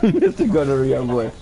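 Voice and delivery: mock-grand nickname through laughter; laughing mock title. Real, not acted. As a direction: savour the name with a laugh. Repeats the name, laughing.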